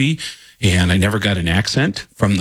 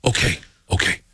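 scared backing off; 3 semitones higher, faster than usual. Retold or imitated. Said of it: "this guy goes".

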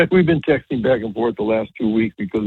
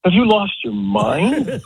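laughing disbelief; 7 semitones higher, slower than usual. Retold or imitated. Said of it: "And she goes".

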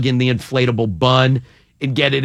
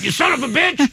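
retold yell; 11 semitones higher than usual. Host imitating a tripped buddy getting yelled at, high mock yell. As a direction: imitate an angry telling-off, pitched way up. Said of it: "he would get yelled at".

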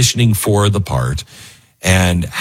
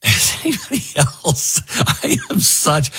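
choked up; 7 semitones higher, 3 dB quieter than usual. Real, not acted. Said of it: "a little bit of a tear in their eye".

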